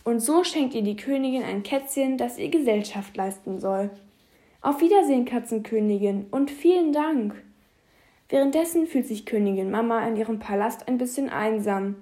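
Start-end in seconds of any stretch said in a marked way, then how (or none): 4.6-7.3 fairy tale princess. Acted. Princess says goodbye.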